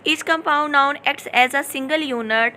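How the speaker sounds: slow, deliberate reading of the definition; slow dictation. Shown as a demonstration. Teacher reading a definition to her class, slow and deliberate. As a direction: read it out word by word for students to copy.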